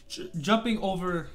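hiccup cuts the first word. Real, not acted. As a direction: stumble on a hiccup. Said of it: "sorry again".

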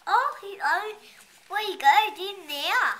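excited exclaim. Real, not acted. Child reading with parent, excitedly asking about the dog. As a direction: burst out with real excitement.

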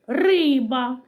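Риба with И held and stressed; vowel И emphasized. Shown as a demonstration. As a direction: lean on the И in Риба. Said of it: "Звук И".

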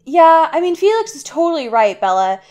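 loud, fast, gushing host voice; fawning villain. Retold or imitated. Narrator voices Aro flattering Bella, gushing and loud. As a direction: gush over her with fake charm. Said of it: "Aro's like".

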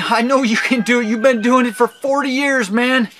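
high, loud urging; pleading pep talk. Retold or imitated. Man coaxing his pinky after forty years, urgent pep talk.

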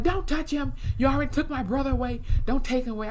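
high-pitched imitated protest; mock frantic pleading. Montana warding Brooke off Trevor, mock frantic.

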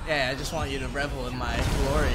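self-satisfied gloating; smug boast. Acted. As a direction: lean into the bragging.

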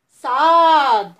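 صاد held very long and loud; long loud letter. Shown as a demonstration. Teacher drawing out the letter for children. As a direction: stretch صاد out big and slow. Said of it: "بغيت نسمعكم كيفاش غتنطقوها".

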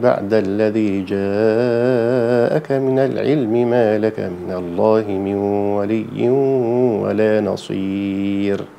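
slow, drawn-out tajweed chant with long madd; Quran recitation. Shown as a demonstration. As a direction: recite it slowly, stretching each long vowel. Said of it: "نقراهم بقى". (تلاوة مجودة بطيئة مع مد طويل)

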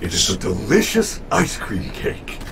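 robot host voice. Acted.

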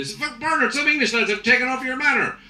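lightly voiced panicking Irish lad; panicked lad. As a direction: blurt the bad news in a fluster. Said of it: "lads are running".

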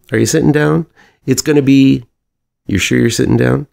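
high-pitched suspense before a reveal; teasing build-up. Acted. Producer teasing his movie idea to his partner, high and excited.

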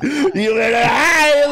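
drawn-out taunting shout; slow shout. Acted. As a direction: slowly yell it as a taunt.

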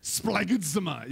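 slow, careful splagidzomai sounded out; teaching the word splagidzomai to the room; say it slowly. Shown as a demonstration. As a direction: draw out splagidzomai syllable by syllable. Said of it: "Would you like to say it with me?".

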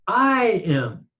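"I" high and drawn out, then "am" falling; emphatic I. Shown as a demonstration. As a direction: lift and stretch "I" for emphasis. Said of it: "a way of emphasizing himself again".

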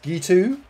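Gitu as "ghee-too", rising at the end; mock pronunciation. Shown as a demonstration. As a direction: say Gitu like "ghee-too", lifting the last vowel. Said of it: "it's pronounced".

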